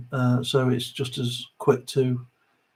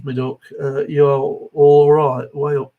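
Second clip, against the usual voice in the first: put-on broad South Derbyshire accent, dragged out; Derbyshire pit talk; 7 dB louder, slower than usual. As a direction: lay on the Derbyshire mining dialect, slow and loud on 'you're all right'. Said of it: "South Derbyshire Pit Talk".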